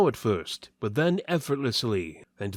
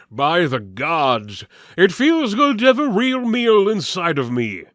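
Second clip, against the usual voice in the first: hearty warrior voice; 6 semitones higher, 8 dB louder than usual. Acted. Waltiver to companions, booming with pleasure. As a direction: savour the meal out loud. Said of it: "Waltiver said".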